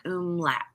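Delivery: "umlaut" as OOM-lat; "umlaut" with oo first, then lat; sounding it out. Shown as a demonstration. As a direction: say "umlaut" ending with a short a. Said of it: "It sounds like".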